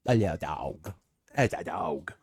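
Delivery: put-on cutesy dog-owner baby talk; playful demonstration of baby talk. Shown as a demonstration. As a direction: slip into a babyish voice for a dog. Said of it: "use a baby voice with a dog".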